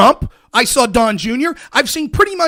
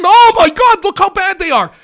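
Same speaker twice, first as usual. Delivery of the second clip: high, loud mock outrage; mock scream; 4 semitones higher, 5 dB louder than usual. Mocking the left's outrage, hammed-up scream. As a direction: shriek it like fake horror. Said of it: "you'll yell and scream".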